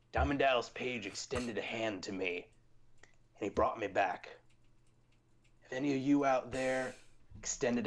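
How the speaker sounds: channel the snake's menacing promo; Jake the Snake voice. Retold or imitated. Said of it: "Let me do my best Jake the Snake voice".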